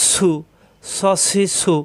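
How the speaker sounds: "স, সি, সু" as short hissed syllables; short vowel demo. Shown as a demonstration. Teacher models short vowels on the letter, brief "স, সি, সু". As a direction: keep each of "স, সি, সু" short. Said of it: "হরকত আসলে উচ্চারণ তাড়াতাড়ি".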